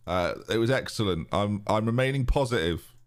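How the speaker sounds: lightly voiced manager at a press conference; deadpan, mildly upbeat post-match cliché; Lujo press conference. Mocking Lujo doing press conferences, lightly voiced and bland. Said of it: "my impression of Lujo doing press conferences".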